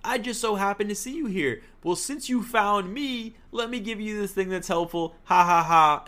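a hint of a smug helper with a fake laugh; mock casual aide. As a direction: imitate a chilled-out helper, high and easygoing. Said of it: "Boo just walks in, he's like".

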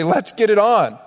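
fired-up call to action; worked up. Acted. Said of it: "he's angry and he's worked up".

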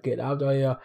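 lightly voiced action-star impression; a hint of Austrian tough guy; understated imitation of a movie strongman; Arnold Schwarzenegger. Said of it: "His voice just changes".

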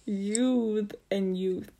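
youth both with th, slowly; youth said two ways. Shown as a demonstration. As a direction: contrast the two youth sounds. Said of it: "They're different".

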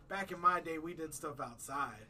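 put-on slow, grumbling old-timer; lightly voiced cranky old man; crotchety old man voice. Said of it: "put on my crotchety old man voice and be like".

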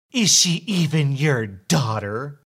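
a prying, suspicious busybody; suspicious entitled mother. Acted. Entitled mother accuses narrator.

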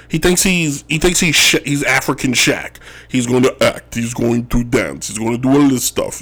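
lightly put-on Embiid accent, carefully spaced words; mock the player with a slight Dracula-like Embiid accent. Host mocking a player's big ego, light Embiid accent. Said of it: "I don't know where that Embiid accent came from".

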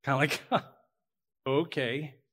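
fast, amused laughing okay; laughing doubt. Retold or imitated. Pastor imagining laughing at the angel, amused. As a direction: laugh it off like Sarah. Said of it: "may have laughed".

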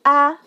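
"ah" falling sharply from high; fourth tone. Shown as a demonstration. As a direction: let "ah" drop steeply from the top. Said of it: "put a fourth tone".

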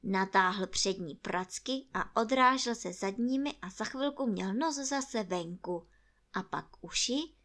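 ordinary delivery, nothing marked

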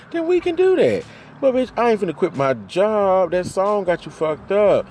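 high, loud exasperated yell; heated yell. Real, not acted. Ranting at her cheating partner, loud and high. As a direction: blow up at him, voice jumping up.

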